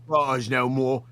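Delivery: put-on rough Australian accent for the bit; put-on Aussie accent. Yo Mama calling out Buff Weeb in a put-on Aussie accent. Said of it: "Why are you Australian?".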